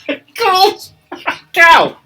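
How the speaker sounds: words stretched out by a laugh. Real, not acted. Barber cracking up at the crawling customer.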